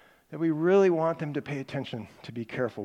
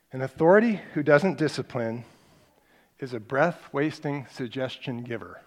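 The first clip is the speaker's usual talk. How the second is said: slow dictation. Shown as a demonstration. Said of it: "I should have had blanks on your sheet".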